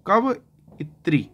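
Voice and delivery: कवइत्री split slowly into कव and इत्री; syllable-by-syllable spelling. Shown as a demonstration. Teacher to students, spelling the word out very slowly.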